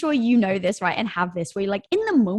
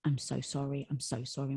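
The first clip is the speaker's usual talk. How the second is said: hushed, much softer, guilty apology; sheepish apology; 6 semitones lower, 11 dB quieter than usual. Retold or imitated. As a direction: employee confessing the ruined batch to founders, softly and much quieter. Employee apologizing after ruining batch.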